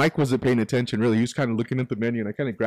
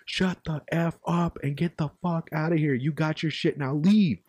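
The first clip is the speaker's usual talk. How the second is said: higher, slow, emphatic imitation of a fed-up man; retold snapping customer; 5 semitones higher, slower than usual. Customer turns on the lady holding up the line, snapping. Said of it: "the guy snaps".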